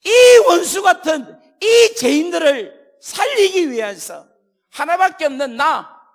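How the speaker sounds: high, loud, slow anguished cry; anguished cry of Jesus. Acted. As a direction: cry out from the cross in agony. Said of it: "예수님이 십자가에 달려 돌아가실 때". (십자가 위 예수님의 절규)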